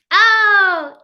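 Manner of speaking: sudden high, loud oh of surprise; surprised oh. Real, not acted. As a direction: let it jump out as a pleased surprise. Reacting to a viewer comment.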